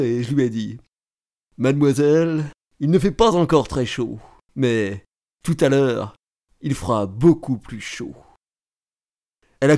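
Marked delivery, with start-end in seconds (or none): 1.6-8.2 put-on low, measured small talk to a girl; courting young man. (jeune homme galant)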